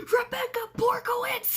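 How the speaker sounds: high, laughing answer; giggling name. Retold or imitated. Prank partner giving a fake name, laughing. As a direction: say the name while cracking up. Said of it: "Her response".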